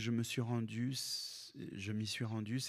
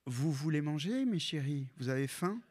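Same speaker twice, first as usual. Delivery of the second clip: grandma; 4 semitones higher, 5 dB louder than usual. Retold or imitated. Grandma voiced in story.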